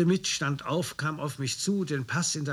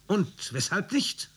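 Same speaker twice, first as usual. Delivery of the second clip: higher, slow, a hint of threat; menacing question; 7 semitones higher, slower than usual. The storm leader probes the writer, slowly and menacingly. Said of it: "Sein Gesicht wurde starr und drohend".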